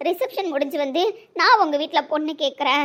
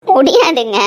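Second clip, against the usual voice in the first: anguished cry; 2 semitones lower, 9 dB louder, slower than usual. Acted. Pleading lover's quarrel.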